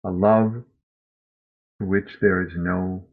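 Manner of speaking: measured, reflective poetry reading; gentle reading of a grief poem. Acted. Reads a Mary Oliver poem.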